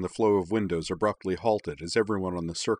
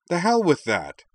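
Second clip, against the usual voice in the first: loud, high angry bark; furious outburst at being left behind; 10 semitones higher, 6 dB louder than usual. A narrator's reading. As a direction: throw the refusal back at her hard. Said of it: "Tally barked".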